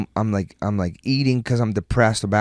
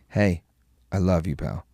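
soft, lower, gentle consoling; reassuring dad; 5 semitones lower, 6 dB quieter than usual. Retold or imitated. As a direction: quietly reassure your boy. Dad consoling son between matches.

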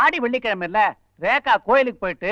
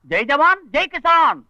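slogan cry; 4 semitones higher than usual. Acted. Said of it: "ஏன் மாமா என்ன திட்டுறீங்க?".

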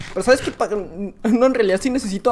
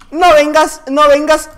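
súplica alarmada, aguda y fuerte; 4 semitones higher, 5 dB louder, slower than usual. Real, not acted. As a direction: frena al rival con urgencia. Ruega al rival que no se acerque. (alarmado, gritando que no venga)

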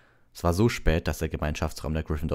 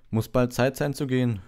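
glum thought; 9 semitones higher, 6 dB louder than usual. A narrator's reading. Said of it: "dachte Harry betrübt".

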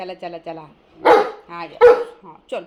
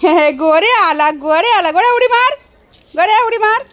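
loud calls climbing higher; excited cheering; 5 semitones higher, 5 dB louder than usual. Real, not acted. Owner cheering an arriving animal to jump, excited calling.

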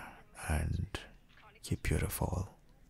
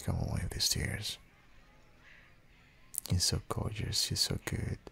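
soothing whisper; 4 semitones higher than usual. Acted. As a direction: breathe the compliments gently. Wiping partner's tears.

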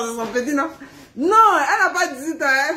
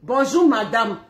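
mock cold husband greeting; 2 semitones lower, slower than usual. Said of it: "il dit".

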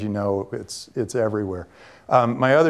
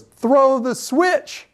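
slow grand command; 13 semitones higher, 3 dB louder, much slower than usual. Retold or imitated. Nicholas giving a dramatic order.

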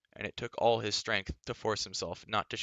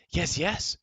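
loud, much higher eager yelp; eager cry; 9 semitones higher, 6 dB louder than usual. A narrator's reading. Gurgi eager to guard the princess, loud higher yelp. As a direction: jump in eagerly. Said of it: "cried Gurgi".

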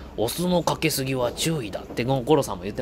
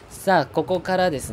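fast energetic; 6 semitones higher than usual. Shown as a demonstration. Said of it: "奥に入っていきましょう。".

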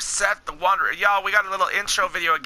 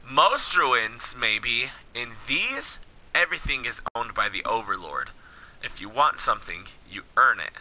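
low, measured henchman's warning; story dialogue reading; 9 semitones lower, 4 dB quieter than usual. Acted. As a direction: read the Overlord's rule as a calm threat. Reads game villain's dialogue.

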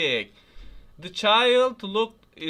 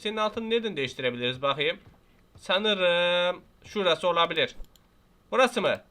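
normal talking voice

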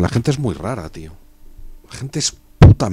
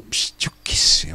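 whisper. Real, not acted. Shrugging aside to chat.

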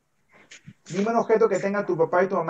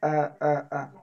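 demonstrated "ah" practice noises; short repeated "ah", showing an exercise; speech exercise demonstration; tongue practice sound; 4 semitones lower, 4 dB quieter, slower than usual. Shown as a demonstration. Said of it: "practicaba haciendo así".

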